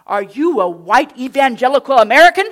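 loud, challenging beach lifeguard; loud island lifeguard. Retold or imitated. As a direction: boom it out like a riled-up stranger. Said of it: "I can't do an island accent, so I won't even try".

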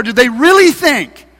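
scornful taunting question; mocking. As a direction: sneer at the builders' hope. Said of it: "he's saying in a mocking voice".

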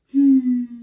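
long mock-glum "hmm"; sad, bored hum. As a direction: hum as if sulking and fed up. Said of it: "show me a sad, bored face".

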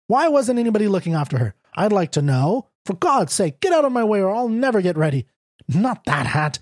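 fast, fussing mother; flustered real mother. Retold or imitated. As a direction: rattle it off like a frantic mother grabbing her hat. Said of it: "what she'd say in real life".

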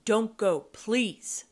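mild, urgent plea; lightly acted pleading. A narrator's reading. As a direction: beg them to stay.

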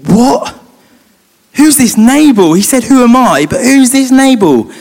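high-pitched, indignant outburst; angry. Retold or imitated. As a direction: act out outraged disbelief, loud and high. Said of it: "He is so angry. He's like".

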